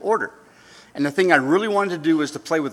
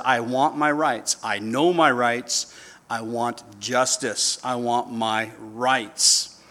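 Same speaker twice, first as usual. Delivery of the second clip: slow insistent demand, each word pressed; a hint of a stubborn angry man; 3 semitones lower, slower than usual. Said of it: "the man got so angry".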